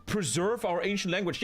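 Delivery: mock old people. Streamer mocking old people fearing for their language, lamenting voice. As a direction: lightly mimic fretting old folk. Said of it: "I don't understand these old people".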